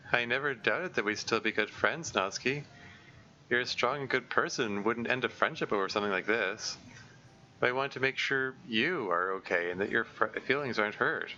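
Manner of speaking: light and bright hello; Monika's voice. Acted. Monika gently reassures.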